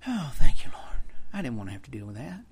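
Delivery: breathy whispered thanks, barely voiced; relieved whisper. Believer whispering relieved thanks to the Lord, whispered. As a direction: hush it out like a private sigh of relief to God. Relieved prayer after conflict resolves.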